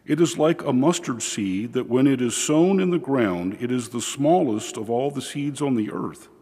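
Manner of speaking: solemn liturgical reading voice; gospel reading. Acted. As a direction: proclaim the gospel steadily from the ambo.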